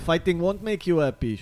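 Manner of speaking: mock actress doing a clumsy Israeli accent. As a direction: imitate halting Israeli-accented English, dropping off at the end. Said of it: "עושה מבטא ישראלי, עילג רצח".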